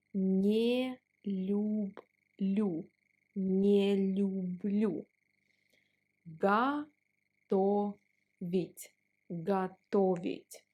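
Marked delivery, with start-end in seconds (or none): 0.1-5.1 не люблю run together as one slow word, нелюблю. Shown as a demonstration. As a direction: glide не straight into люблю, no break. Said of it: "We pronounce не and люблю like one word".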